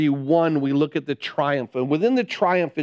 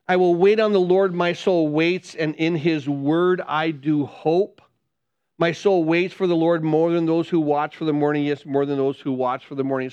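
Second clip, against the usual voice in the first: scripture reading. Acted. Reads psalm aloud again.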